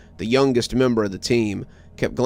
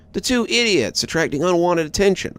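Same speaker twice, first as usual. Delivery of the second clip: sharp, irritated snap, much higher; snapped; 8 semitones higher than usual. A narrator's reading. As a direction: bite the words off. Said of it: "I snapped".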